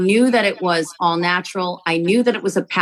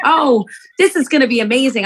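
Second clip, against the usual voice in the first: mock excitement; 5 semitones higher, 4 dB louder than usual. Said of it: "I didn't come into this thinking".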